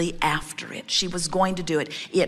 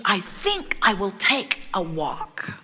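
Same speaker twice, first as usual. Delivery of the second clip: slow, leisurely announcement; unhurried, breathing it all in; Jerry; slower than usual. Retold or imitated. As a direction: lightly act out a man savoring his free time. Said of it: "as he is breathing deeply".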